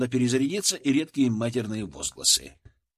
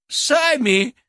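loud, much higher squeal of panic; shrill squeal; 11 semitones higher, 7 dB louder than usual. A narrator's reading. Frightened scientist squealing at being left alone. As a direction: shriek it in outrage. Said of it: "уже взвизгнул один из спасённых".

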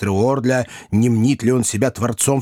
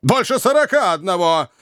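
scornful correction; 8 semitones higher than usual. A narrator's reading.

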